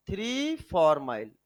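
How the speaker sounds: dictation repeat. Shown as a demonstration. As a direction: repeat the name for students to copy. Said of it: "लिखो बेटा".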